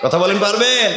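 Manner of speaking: high, rising call to the crowd; rousing prompt. Real, not acted. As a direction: push the listeners to shout back. Prompting a muted crowd to answer.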